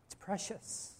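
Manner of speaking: a reverent whispered aside; hushed whisper. Real, not acted. Preacher whispering to the congregation, hushed awe. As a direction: breathe it out, barely voiced.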